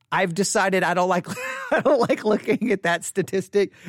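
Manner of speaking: breathy, half-laughing whisper; whispered confession. Real, not acted. To listeners, on dropout stats: laughing whisper. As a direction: let it slip under your breath, amused. Admitting an awkward habit with a laugh.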